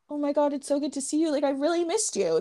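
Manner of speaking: chatty, casual mock reunion greeting; friendly greeting. Host contrasting a friend's greeting with a flirt line, casual. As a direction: gush lightly like a platonic pal. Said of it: "that was not, like".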